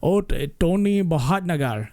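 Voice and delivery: light Indian accent on the name; Indian-accented Tony voice. Shown as a demonstration. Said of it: "that is a practice I do".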